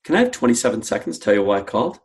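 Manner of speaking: quick question with the voice going up twice; playful, curious. Shown as a demonstration. Cold caller asking for twenty-seven seconds, playful and curious. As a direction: ask lightly, with playful curiosity. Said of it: "change to what we call a playful, curious voice".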